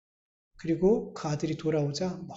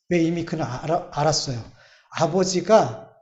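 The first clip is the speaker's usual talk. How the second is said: ordinary delivery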